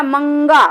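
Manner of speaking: मंगा with a full ng sound through the nose; nasal anusvar. Shown as a demonstration. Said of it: "क्या आएगा?". (नाक से गूँजता मंगा)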